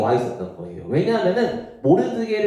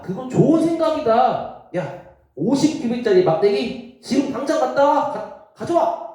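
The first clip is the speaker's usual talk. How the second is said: eager Haman; 8 semitones higher than usual. Acted. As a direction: bark out orders, pleased with the plan. Haman orders the pole. (높고 크게 신나서 명령하는 하만)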